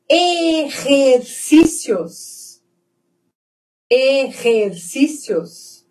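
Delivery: "Exercícios" slowly by syllable, the X as a rasped H; throaty Spanish J. Shown as a demonstration. Teacher models ejercicios, slow throaty J in "Exercícios". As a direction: stretch "Exercícios", scraping its second syllable in the throat. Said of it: "Som de R".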